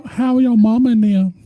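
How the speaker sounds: high, sing-out folksy hello; playful greeting. Pretend. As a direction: call out high to the whole family. Playful exaggerated greeting to viewers.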